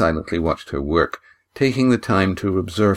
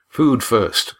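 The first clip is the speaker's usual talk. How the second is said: firm; 3 semitones higher than usual. Acted. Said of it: "said Lindy firmly".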